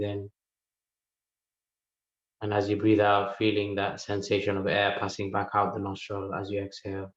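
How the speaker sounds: calm, spaced-out meditation instructions; unhurried meditation guide, leaving room to breathe; guided meditation. Real, not acted. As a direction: guide them gently inward, pausing between phrases.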